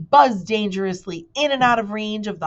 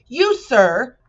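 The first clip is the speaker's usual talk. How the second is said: higher and louder; excited shout; 7 semitones higher, 8 dB louder than usual. A narrator's reading. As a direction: cry out, worked up. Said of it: "shouted the bee excitedly".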